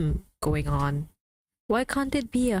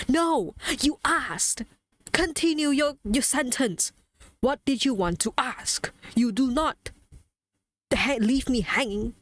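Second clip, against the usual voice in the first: higher, exasperated comeback; indignant demand; 4 semitones higher than usual. Acted. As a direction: demand that they finish what they started. Indignant retort to imagined backpedaler.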